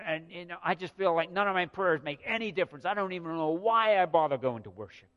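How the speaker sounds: a hint of whiny complaining; grumbling worshipper. Preacher imitating people grumbling against God, mildly whiny. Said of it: "they would start to grumble against God".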